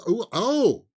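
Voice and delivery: loud, high startled double oh; shocked oh. Real, not acted. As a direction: recoil at the bad score. Reacting to the Rebel Moon score.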